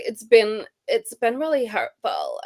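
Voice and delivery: put-on drawn-out, accidental socialite accent; mock heiress accent, words stretched; Paris Hilton. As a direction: imitate her in a slow put-on American accent. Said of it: "I sound like Paris Hilton".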